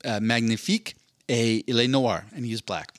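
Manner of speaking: lightly voiced sales pitch; a playful mock recommendation from the algorithm; hint of an eager promo voice; Netflix blurb voice. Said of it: "and it's like".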